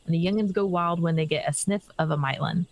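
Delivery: lightly voiced gruff stable keeper; a hint of a rural English chocobo trainer; rustic NPC voice. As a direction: read it like a folksy farmhand. NPC quest line reread.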